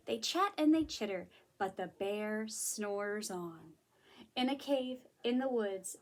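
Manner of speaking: picture-book storytelling; story narration. A narrator's reading. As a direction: read to little children, winding down to sleep. Reads a story aloud.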